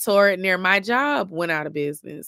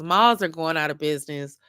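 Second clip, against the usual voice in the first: yawning; 3 semitones lower than usual. Real, not acted. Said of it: "I keep yawning 'cause I'm getting sleepy".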